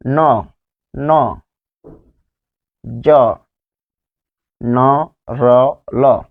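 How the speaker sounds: ন, জ, র, ল said one by one with pauses; demonstrating alveolar consonants. Shown as a demonstration. Teacher showing students the alveolar sounds, one at a time. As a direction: sound out ন, র, ল carefully as bare syllables. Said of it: "দন্ত মূলীয় ব্যঞ্জন".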